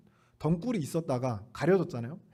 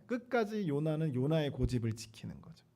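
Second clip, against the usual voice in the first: whisper; 2 semitones lower, 6 dB quieter than usual. Real, not acted. Sermon aside, dropped to whisper.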